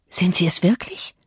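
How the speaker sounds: breathless whisper of doubt; hushed astonished whisper; whispered disbelief. A narrator's reading. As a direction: whisper it, barely daring to ask.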